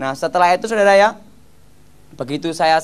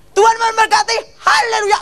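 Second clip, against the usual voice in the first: high, loud shouted haleluya; mock shouted blessing; 4 dB louder than usual. Gilbert countering the spell with a high, loud shout. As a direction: shout the blessing like a revival preacher. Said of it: "langsung Gilbert gini".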